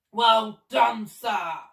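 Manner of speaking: loud hearty praise; excited shout. Acted. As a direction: cheer him on, bursting with glee. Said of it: "shouted the Duke, hopping about with excitement".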